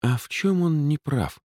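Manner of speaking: high, challenging question. Acted. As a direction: hands on hips, challenging him. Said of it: "спросила она".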